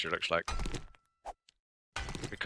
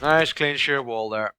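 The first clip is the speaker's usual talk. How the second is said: slow, louder and higher, showing off; Nice clean sheer wall there called out slow, louder and higher; proud announcement; 5 semitones higher, 7 dB louder, slower than usual. Real, not acted. Admiring wall, second take.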